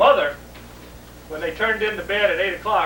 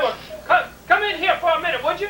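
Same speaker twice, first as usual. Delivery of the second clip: dad asking; 8 semitones higher, faster than usual. Retold or imitated.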